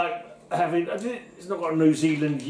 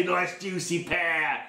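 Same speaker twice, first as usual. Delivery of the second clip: suggestive; 3 dB quieter, much slower than usual. Pretend. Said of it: "'cause I can say".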